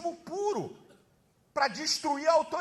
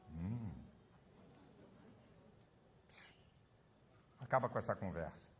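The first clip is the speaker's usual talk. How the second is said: put-on much lower, soft stern old man; old father's voice; 18 dB quieter than usual. Imitating his old father silencing the brothers, low. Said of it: "o velho Malafa".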